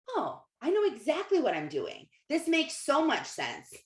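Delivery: mild delighted realization, lifted pitch; sudden clarity. Acted. Waking up with massive clarity one day, delighted realization. Voicing future moment of clarity.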